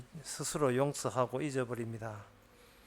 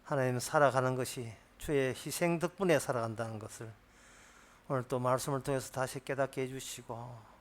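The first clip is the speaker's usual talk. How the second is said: spoken prayer. Acted. Pastor leads closing prayer.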